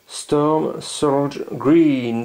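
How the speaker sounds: English colour name in a French accent, drawn out very slowly; attempted English accent. Real, not acted. Vlogger reading a paint name to viewers, attempted English accent. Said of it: "Désolé pour l'accent anglais".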